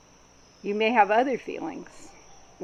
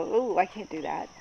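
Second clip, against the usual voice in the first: squirming resistance. Retold or imitated. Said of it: "start feeling uncomfortable and go".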